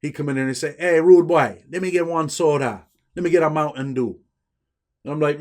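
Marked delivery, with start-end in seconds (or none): 0.8-4.2 put-on a light Jamaican accent, casual and friendly; ordering a soda in a hint of Jamaican patois. Inmate asking for a soda at the store, lightly Jamaican. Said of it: "he'd switch over to his little Jamaican voice".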